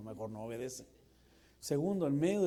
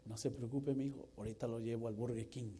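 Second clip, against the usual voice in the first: calm dad; 3 semitones lower, 4 dB quieter than usual. Acted. Acted calm dad answering.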